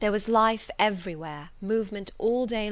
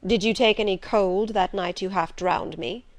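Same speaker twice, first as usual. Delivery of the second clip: gruff master voice; 6 dB louder than usual. Acted. Rochester asks Jane.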